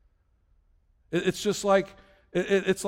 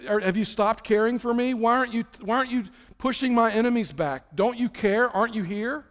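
higher-pitched string of challenging questions; pleading complaint; 4 semitones higher than usual. Acted. David crying out in the Psalms, mildly pleading complaint. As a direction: press God for an answer. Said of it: "David is constantly saying things like".

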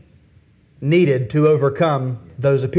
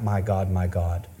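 much lower and softer my God; hushed cry; 9 semitones lower, 6 dB quieter than usual. Retold or imitated. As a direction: drop the voice right down for the quoted cry. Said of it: "I don't want to cry out".

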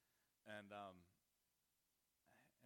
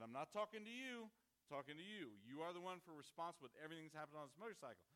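angry scolding; 4 semitones higher, 3 dB louder than usual. Retold or imitated. Father scolding daughter, boyfriend.

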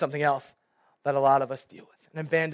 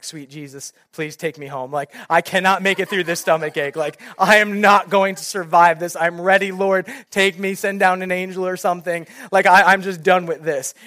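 louder and louder, self-mocking melodrama; mock dramatic cry to God; 2 semitones higher, 6 dB louder than usual. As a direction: overplay a stomach ache as if dying. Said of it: "screaming out".

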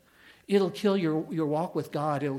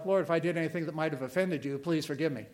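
weasel approach; faster than usual. Retold or imitated. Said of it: "that's the weasel approach".

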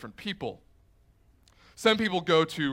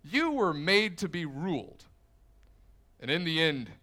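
commanding Loki. Retold or imitated. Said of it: "and he says".

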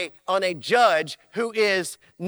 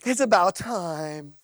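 lower, amused divine reply; God laughing; 4 semitones lower than usual. Acted. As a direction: chuckle then answer fondly. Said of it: "here's what he's gonna say".

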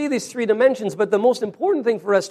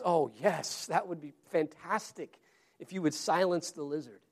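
eager relief; 3 semitones lower, 12 dB quieter than usual. Acted. Man accepting angel's offer.

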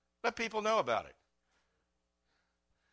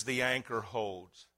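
song quote; 4 semitones lower, 4 dB quieter, slower than usual. Acted. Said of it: "And it says".

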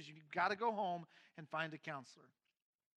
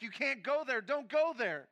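raised, higher pleading warning; urgent warning; 7 semitones higher, 10 dB louder, slower than usual. Retold or imitated. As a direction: insist he must not go. Wife warning him, raised voice.

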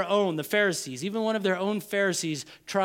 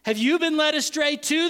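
high, louder acted mockery; mocking; 8 semitones higher, 5 dB louder than usual. Pharisees to the temple guards, high mocking challenge. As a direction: jeer it as a raised question. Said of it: "the Pharisees mocked".

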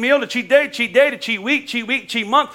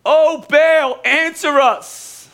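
mild shout; 8 semitones higher, 5 dB louder, much slower than usual. Retold or imitated. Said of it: "They shouted".

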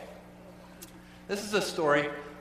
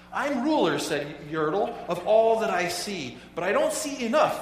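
proud turtle king, louder and rising; boastful king Yertle; 3 semitones higher, 5 dB louder than usual. Acted. Pastor reading Yertle's boast to the church, proud and loud. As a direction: puff up like a vain little king.

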